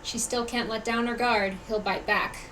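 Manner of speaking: cautious aside. Acted. Onlooker warning that he'll bite back, quiet caution.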